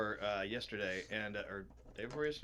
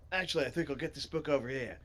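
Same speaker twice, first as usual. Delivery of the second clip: light Aussie character voice; Australian accent; 4 semitones higher than usual. Acted. Reader as Griff choosing a book, Australian accent. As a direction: say it as an easygoing Australian. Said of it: "why am I making him Australian?".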